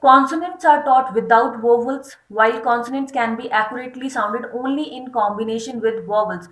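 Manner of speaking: slow, deliberate reading of a definition; slow dictation read. Acted. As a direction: dictate it slowly for notes. Reads text slowly. (धीमे-धीमे परिभाषा पढ़ना)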